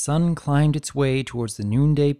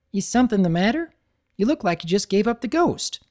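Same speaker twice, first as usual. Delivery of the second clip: a friend checking on her pal; concerned Applejack; 8 semitones higher than usual. Acted.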